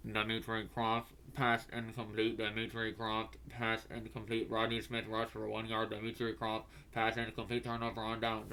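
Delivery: a hint of a PA announcer reading out the drive; stadium announcer. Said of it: "we hear".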